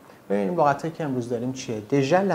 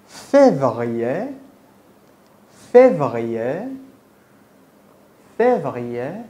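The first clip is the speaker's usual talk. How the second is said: فوریه drawn out slowly and louder; slow louder drill; 7 dB louder, much slower than usual. Shown as a demonstration. Teacher slowly drills فوریه for the student. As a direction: hold out فوریه loud and slow. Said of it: "teacher drills months".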